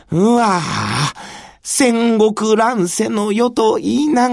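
put-on earnest young retainer wondering aloud; dreamy young samurai voice; young samurai musing.

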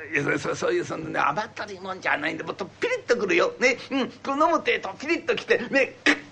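lightly voiced old man hinting around; wheedling old man. Old man hinting to his wife that he wants a drink, lightly voiced. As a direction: coax without saying it outright.

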